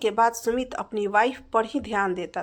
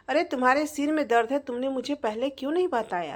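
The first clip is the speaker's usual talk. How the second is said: quick, higher, fussing concern; worried wife; 3 semitones higher, faster than usual. Acted. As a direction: rush out the worry about his headache. Wife hears husband has headache.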